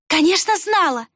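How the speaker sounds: high, smirking admission; nasty grin. A narrator's reading. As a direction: admit it with a wicked smile. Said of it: "нехорошо улыбнулась Рукс". (с недоброй усмешкой, высоко)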